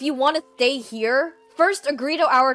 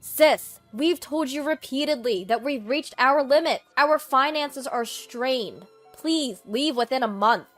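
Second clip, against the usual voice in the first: loud, raised-pitch ultimatum; stern confrontation; 3 semitones higher, 7 dB louder than usual. Acted. Eden tells his sister to leave within a month, stern and loud. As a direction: firmly lay down the limit, voice raised.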